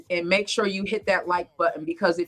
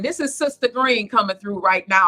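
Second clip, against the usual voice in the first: stern church mother voice, louder; mom voice; 4 dB louder than usual. Real, not acted. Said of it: "my mom voice coming".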